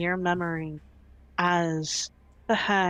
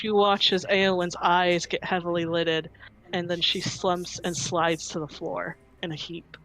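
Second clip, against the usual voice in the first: ordinary delivery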